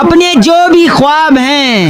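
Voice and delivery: slow poetic opening line; mock shayari recital. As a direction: offer it as a couplet, drawn out. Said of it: "एक और अर्ज किया है".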